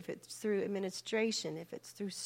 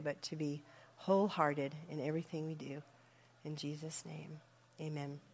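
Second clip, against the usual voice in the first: prayer. Acted. Leads the group prayer.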